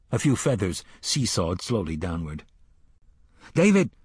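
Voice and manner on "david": high, loud call to the hawk; yelled. A narrator's reading. Roland calling his hawk by name, loud yell. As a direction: summon the bird across the field. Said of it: "the boy yelled".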